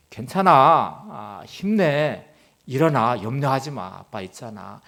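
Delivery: slow, tender reassurance; father reassuring his two sons, tender and slow; gentle father. Retold or imitated.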